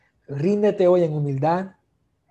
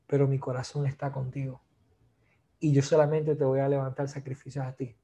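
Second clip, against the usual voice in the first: hushed, earnest plea of Naaman; 2 semitones lower than usual. Acted. Voices Naaman praying again.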